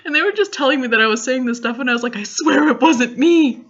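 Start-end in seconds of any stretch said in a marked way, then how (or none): 2.2-3.6 slow, high laughing protest. Retold or imitated. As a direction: giggle through a loopy denial. Drugged denial, laughing.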